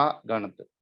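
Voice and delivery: ਅਗਣਤ as "a-GANT", the prefix apart; prefix split off. Shown as a demonstration. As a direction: separate the opening "a" of ਅਗਣਤ from "gant". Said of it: "ਆੜਾ ਅਗੇਤਰ ਹੈ". (ਅਗਣਤ ਨੂੰ "ਅ-ਗਣਤ" ਤੋੜ ਕੇ ਬੋਲੋ)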